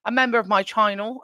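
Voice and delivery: a slip into a light British accent on "a member of my channel", saying "channel" as "tyannel". Real, not acted. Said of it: "why I went British right there".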